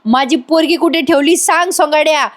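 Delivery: retold angry calling-out; imitated yelling aunt. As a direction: demand it like a scolding aunt, half-voiced. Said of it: "ती आत्या ओरडत ओरडत येते".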